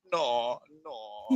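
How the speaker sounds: put-on high Spanish-accented maid voice; a quick high Consuelo no. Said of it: "you imagine Consuelo from Family Guy".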